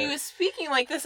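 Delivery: high imitation of forced American accent; put-on American accent. Imitating her little cousin in Nigeria, put-on American accent. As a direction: mimic someone trying to sound American. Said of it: "the accent where they try to sound American".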